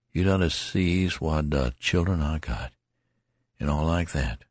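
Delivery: lightly voiced sick soldier; tattered soldier, joking. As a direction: soldier reassuring the youth with a smile. Tattered man reassures.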